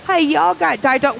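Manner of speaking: put-on high Southern-accented customer; mock Southern lady placing an order; Louisiana lady caller. Lady caller asking Jelly Donut, high Southern accent. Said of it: "I was picturing my head".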